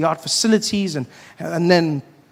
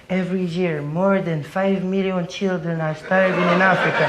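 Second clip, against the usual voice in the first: charity ad voice. Retold or imitated. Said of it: "be like".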